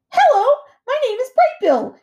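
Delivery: high, loud gosling call; shouting gosling. A narrator's reading. Gosling introducing himself to distant otters, shouting. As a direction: call out eagerly over the waves. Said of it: "he shouted over the waves".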